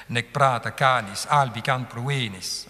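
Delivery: "Nec prata canis albicam pruinis" with every second syllable long and stressed; iambic scansion. Shown as a demonstration. Teacher proves the iambic rhythm holds, scanned recitation. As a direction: lean on each long in the line. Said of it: "sentir le rythme iambique".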